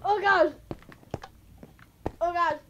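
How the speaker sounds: high, loud exclamation; frightened cry. Real, not acted. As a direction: keep crying out in shock. Shaken by jump scare.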